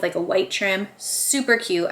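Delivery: ordinary talk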